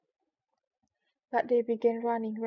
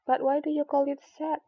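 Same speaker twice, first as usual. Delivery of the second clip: higher, louder wondering ask; puzzled question; 4 semitones higher, 5 dB louder than usual. Acted. Alice puzzling over the mouse's sad tale, asking higher.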